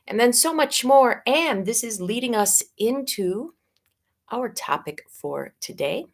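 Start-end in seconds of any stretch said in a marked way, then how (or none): 4.3-6.1 hushed aside; whispering. Acted. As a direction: drop to a whisper.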